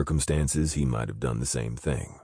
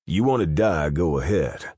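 sharp, raised and louder; curt snap; 3 semitones higher, 4 dB louder than usual. Acted. Fallon snapping at the scared guard. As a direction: bite the words off at him. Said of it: "Fallon snapped".

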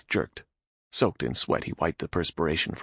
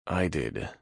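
dully. Acted. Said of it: "Nath replied dully".

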